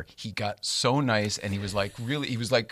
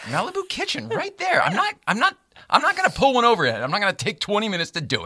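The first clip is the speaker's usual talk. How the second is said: much higher and a bit louder; hammed-up exasperated reply; mock exasperated explaining; 12 semitones higher, 4 dB louder than usual. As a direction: insist up high to the kid. Speaker explains to the kid.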